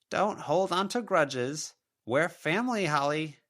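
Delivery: a mother's ghost listing her excuses; self-pitying spectral mother; wounded ghost mother. A narrator's reading.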